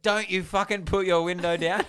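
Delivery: high, loud re-enacted outburst; imitated angry yell. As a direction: yell it like a furious driver. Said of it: "he keeps yelling at me".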